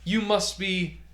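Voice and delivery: sudden loud, high gasp of joy; delighted outburst. Acted. Douglas jumping up to greet the doctor, thrilled. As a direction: burst out as if meeting a star. Host leaps up greeting guest.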